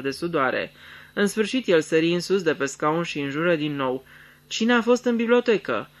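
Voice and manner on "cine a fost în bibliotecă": snapping at servants. A narrator's reading. Lord snaps at his servants, demanding who entered. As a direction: bark the question at the servants. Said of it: "Se răsti la servitorii".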